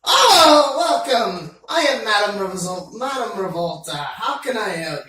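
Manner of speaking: put-on shopkeeper with a Scottish accent; loud cheery Scottish welcome. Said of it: "Isn't it supposed to be a lady, not a Scotsman?".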